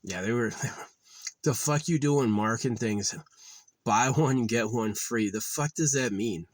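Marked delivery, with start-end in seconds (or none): 1.4-6.5 re-enacted exasperated outburst; mildly raised, indignant complaint; losing it. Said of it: "heard me lose my shit".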